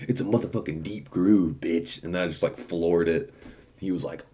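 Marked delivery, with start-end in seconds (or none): 0.1-2.0 retold comeback. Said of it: "and I go".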